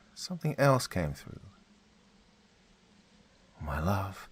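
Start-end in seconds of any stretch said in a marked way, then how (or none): 3.6-4.3 sweet and loving. Acted. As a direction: greet your long-lost husband sweetly. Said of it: "in her beautifully sweet voice".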